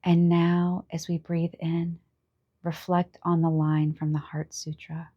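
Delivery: unhurried meditation guide, long pauses between phrases; calm guided-meditation delivery with room to breathe. Acted. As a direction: gently lead listeners inward, leaving space after each instruction.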